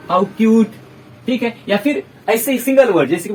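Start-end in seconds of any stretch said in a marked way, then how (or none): 0.1-0.7 louder, gushing "How cute"; delighted exclamation. Shown as a demonstration. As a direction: burst out at something adorable. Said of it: "हम बोलते हैं ना". (खुशी से ज़ोर से "How cute")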